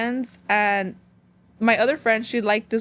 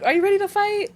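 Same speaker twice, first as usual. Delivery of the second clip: playful high-pitched principal impression; imitated school principal; 10 semitones higher than usual. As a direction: tease in a put-on high voice, as the principal. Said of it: "me hacía así, like".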